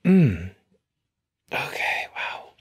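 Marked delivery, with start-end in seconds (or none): 1.5-2.5 breathy whispered okay to herself. Real, not acted. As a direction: whisper it while gathering yourself.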